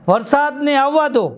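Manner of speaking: slow, lifted recital of વરસાદને આવવા દો; poem title recital. Shown as a demonstration. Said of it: "આજની મારી કવિતાનું શીર્ષક છે".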